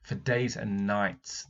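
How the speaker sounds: For days and nights drawn out slowly; slow opener. Shown as a demonstration. Teacher showing off the opening phrase. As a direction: savour the opener. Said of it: "what a great opener".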